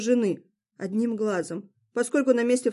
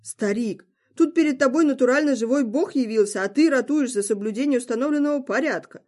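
indignant; 3 semitones higher than usual. Acted. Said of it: "куда сильнее возмутился Локи".

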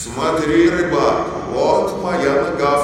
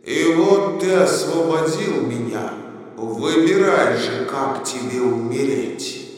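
angry genie. Acted. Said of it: "Тогда я очень рассердился".

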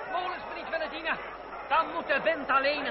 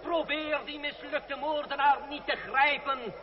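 public oration; slower than usual. Acted. André calming the citizens, public oration. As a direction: hold the crowd's attention. Orator addresses crowd again.

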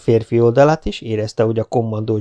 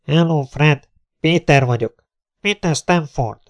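raised, projected greeting to a friend; calling by loudspeaker; 5 semitones higher, 3 dB louder than usual. Acted. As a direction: call out who you are, higher-pitched. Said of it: "ismét megszólalt a hangszóró". (hangszóróba kiáltott bemutatkozás)

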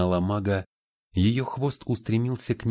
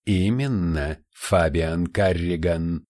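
slow, louder, rasping demon gloat; rattling demon voice; 3 dB louder, slower than usual. Acted. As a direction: drag out the name like a gloating demon. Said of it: "Голос суккуба приобрёл неприятный дребезжащий тембр".

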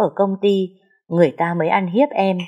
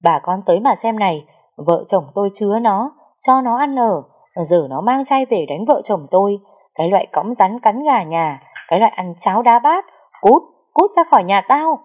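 angry cursing; 2 semitones higher than usual. Acted. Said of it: "vừa chạy vừa chửi".

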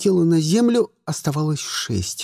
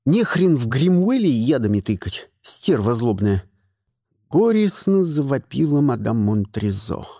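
plain reading voice

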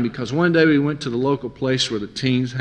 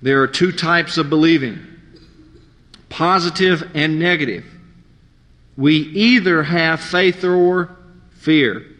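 measured sermon reading from a book; reading aloud; 3 dB louder than usual. Shown as a demonstration. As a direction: read each line slowly and firmly to the congregation. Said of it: "I wanted to read this part".

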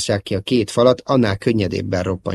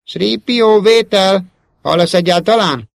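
high, loud, insistent calling; pleading call; 11 semitones higher, 5 dB louder, slower than usual. A narrator's reading. Luke retrying the silent transceiver, pleading loudly. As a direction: call harder, desperate for an answer. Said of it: "könyörgő hangtól".

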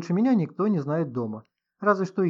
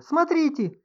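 high piercing shriek, louder; shriek again; 5 dB louder, slower than usual. A narrator's reading. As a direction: keep shrieking in alarm. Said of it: "взвизгнула вдруг Инга". (визг испуганной женщины)

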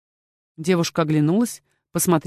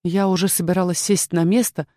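usual speaking voice

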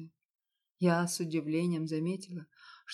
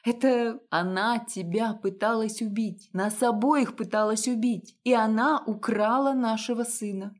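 higher, louder, pressing him; outraged plea; 4 semitones higher, 5 dB louder than usual. Acted. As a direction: confront him hard. Wife confronting husband about her. (жена в ярости убеждает мужа, громче и выше)

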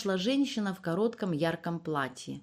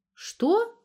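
a startled yelp, much higher; startled "what?"; 4 dB louder than usual. A narrator's reading. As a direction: jump at the unexpected word. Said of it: "испугалась Верка". (испуганное «Что?», резко вверх)

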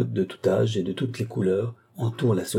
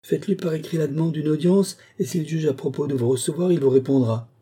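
higher, brisk official brush-off; officious housekeeper; 7 semitones higher, 3 dB louder than usual. Acted. Housekeeper dismissing a visitor who wants the curé, officious. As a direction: lay down the procedure to an unwelcome caller.

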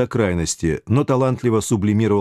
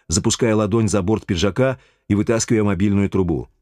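ordinary delivery

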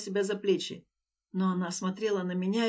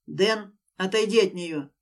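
loud, steady, unyielding; firm command; 4 dB louder than usual. Acted. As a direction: order him off, no give. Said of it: "Чётко и непоколебимо".

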